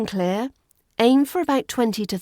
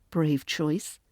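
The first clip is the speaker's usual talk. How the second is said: ordinary delivery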